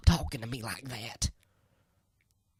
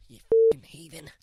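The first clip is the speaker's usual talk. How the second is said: angry yell; 10 dB louder than usual. Acted. Cursing Trent before leaving.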